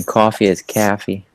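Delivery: coffee said as caffey in a Boston accent; Boston accent, open caffey vowel. Shown as a demonstration. Friend mimicking Boston speech, Boston caffey. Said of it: "Instead of Boston".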